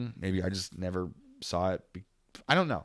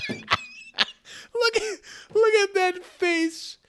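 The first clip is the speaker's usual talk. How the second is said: high, slow laughing quote; laughing imitation; 5 dB louder, much slower than usual. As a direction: squeal it out through laughter. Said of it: "Amir going".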